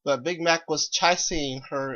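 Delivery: ordinary delivery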